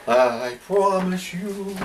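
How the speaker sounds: drawn-out solemn promise; slow and dramatic. Acted. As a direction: stretch each word slowly.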